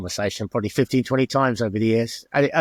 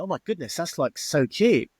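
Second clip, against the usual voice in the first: mock amazement; 3 semitones higher than usual. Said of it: "They go".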